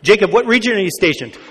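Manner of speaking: quick, lightly voiced radio DJ; brisk on-air host question; Robin Williams DJ. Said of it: "Robin Williams is this D J".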